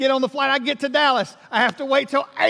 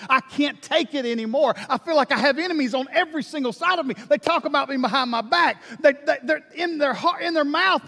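desperate pleading prayer; 3 semitones higher than usual. Pretend. Imagined prayer about miserable job.

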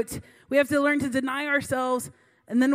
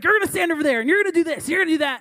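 put-on higher, louder, a bossy girl barking orders; 4 semitones higher, 4 dB louder, faster than usual. Eighteen-year-old leader ordering staff around, barking and bossy. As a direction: bark the orders like a teen boss. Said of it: "barking orders at us".

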